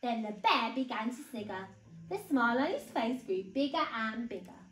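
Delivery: put-on animated read-aloud for small children; story narration. A narrator's reading. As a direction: tell it clearly and expressively to little ones.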